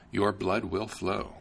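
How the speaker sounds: slow, menacing king's threat. Acted. King warns the prince he will die, slow and menacing. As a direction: drag out the threat like a cruel king.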